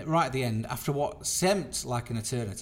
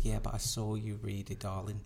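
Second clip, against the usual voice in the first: low, softened condescending retort; patronising; 3 semitones lower, 6 dB quieter than usual. Retold or imitated. Tipsy spectator tells the magician she saw him peek, patronising. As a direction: imitate someone talking down, dropping soft on the last word. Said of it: "Really patronising".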